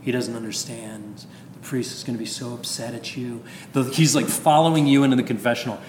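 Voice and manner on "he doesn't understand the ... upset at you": devil's lie. Retold or imitated. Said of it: "he's gonna be lying to you".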